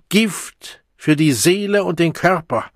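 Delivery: high, loud interjection; impassioned warning. A narrator's reading. The Savage interrupts the bursar, crying a warning. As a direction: cut in with an urgent cry.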